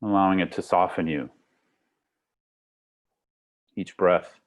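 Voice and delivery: calm meditation guide with long pauses; guided meditation. Acted. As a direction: lead them gently into the breath, unhurried. Leads a guided breathing meditation.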